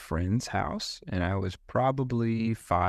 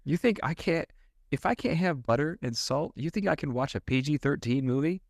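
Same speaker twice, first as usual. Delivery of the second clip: higher-pitched mock indignation; indignant kid; 7 semitones higher than usual. Kid who can't have butter arguing about movies, playful indignation. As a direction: protest like an incredulous child. Indignant child voiced in story.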